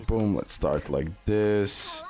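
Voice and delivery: ordinary talk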